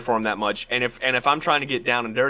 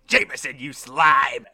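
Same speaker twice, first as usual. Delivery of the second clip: Green Goblin impression; 3 semitones higher, 3 dB louder, slower than usual. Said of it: "do our Green Goblin impression".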